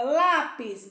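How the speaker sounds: "lápis" with "lá" pushed out; stressed first syllable. Shown as a demonstration. Teacher picking out the syllable to colour, stress on "lá". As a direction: lean hard on "lá" in "lápis". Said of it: "pintar a sílaba lá".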